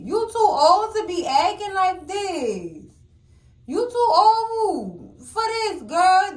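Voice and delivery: high, slow scolding; slow high scold to Nancy. Real, not acted.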